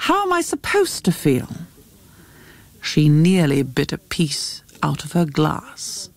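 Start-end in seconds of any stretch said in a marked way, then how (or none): 0.1-1.5 high-pitched, defensive comeback; testy retort. A narrator's reading. Jackie answers her guest's question, testy and defensive. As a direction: throw the question back, voice raised in pitch. Cornered mother retorts before leaving.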